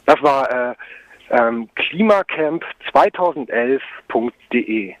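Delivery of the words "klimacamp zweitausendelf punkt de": slow, measured web address; slow dictation. Real, not acted. Activist repeats the homepage address for listeners, slow dictation. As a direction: give it slowly, piece by piece.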